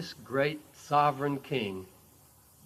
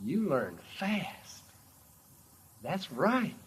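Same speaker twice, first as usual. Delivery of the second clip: Jesus smiling; 4 semitones higher, much slower than usual. Acted. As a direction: praise the pupil gently, with a big smile. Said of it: "Jesus smiles, real big smile".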